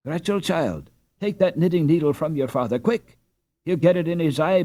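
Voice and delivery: alarmed mother. Acted. Mother warns daughter, father's danger.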